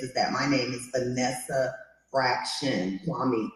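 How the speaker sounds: slow, careful spelling-out of Vanessa Fraction Kwame; name said carefully. Shown as a demonstration. Host correcting panel on her name, slow careful pronunciation. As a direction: say "Vanessa Fraction Kwame" slowly and deliberately, each part clear. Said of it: "correcting us on how to pronounce your name".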